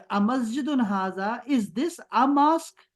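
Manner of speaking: "is this a mosque" very slow, rising; slow question demo. Shown as a demonstration. Teacher modelling a question slowly for the class. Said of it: "آ کا مطلب ہوگا is".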